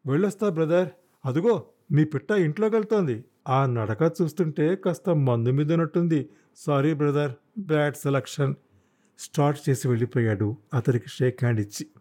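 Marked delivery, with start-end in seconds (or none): 0.1-8.5 lightly voiced young motorcyclist, higher pitch; a hint of a carefree, chummy lad; cheery young biker. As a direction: toss out breezy New Year consolation. Biker's chummy parting remarks.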